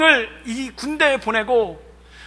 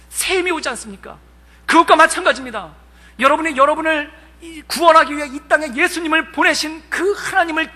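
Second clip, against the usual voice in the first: raised, fervent sermon delivery; preaching. Acted. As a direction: urge the recruits toward peace. Retells his sermon.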